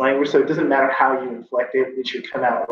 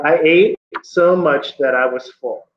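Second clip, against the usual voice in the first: demonstration sentence. Shown as a demonstration. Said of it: "I'm gonna use a sentence here".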